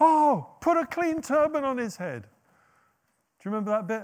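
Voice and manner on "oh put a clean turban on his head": put-on high, thrilled, eager, excited shout. Retelling a Bible scene, acting out an onlooker's excited shout. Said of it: "He shouts it out".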